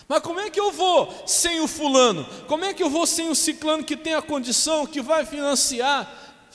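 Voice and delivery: 3 mimic a fretful believer who won't let go; 1 whiny doubter. 4 pastor mocking a doubter who trusts his partner, whiny and high.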